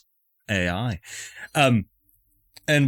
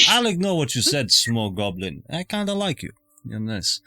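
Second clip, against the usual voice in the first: put-on Scottish accent; 3 semitones higher than usual. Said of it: "I picked up this accent".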